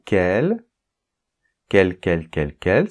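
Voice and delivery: each "quel" said the same way; prononciation identique. Shown as a demonstration. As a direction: repeat "quel" identically for every spelling. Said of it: "ça se prononce de manière identique". (« quel » prononcé chaque fois de manière identique)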